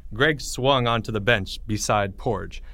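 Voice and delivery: ordinary delivery, nothing marked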